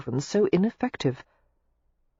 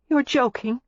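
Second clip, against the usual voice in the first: higher, feeble protest; weak disbelief; 8 semitones higher than usual. A narrator's reading. Daisy doubting his declaration, weakly. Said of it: "she said weakly".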